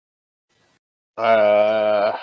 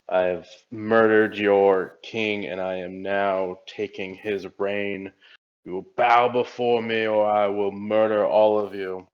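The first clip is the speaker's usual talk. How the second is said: dark lord; 4 dB louder than usual. Acted. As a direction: bellow it like a tyrant king. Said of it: "I'd bellow at the lines".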